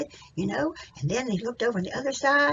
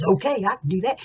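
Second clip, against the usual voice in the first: lightly voiced donkey, louder; a hint of a donkey voice; donkey character; 7 dB louder than usual. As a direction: answer up as the donkey, loudly. Acts out the donkey replying.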